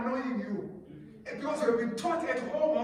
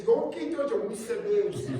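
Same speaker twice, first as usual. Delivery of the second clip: laughing; 8 dB louder than usual. Real, not acted.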